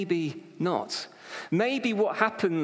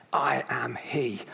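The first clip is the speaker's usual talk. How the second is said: slow, whispered divine words; hushed declaration; 4 semitones lower, slower than usual. Acted. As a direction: whisper it slowly with weight. Climactic quote of Jesus.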